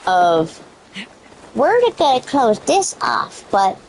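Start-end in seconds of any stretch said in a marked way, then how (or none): 1.5-3.8 sarcastic mock developer voice, rising high at the end. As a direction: sneer it like a fake-friendly promise. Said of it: "They wanna play this game of".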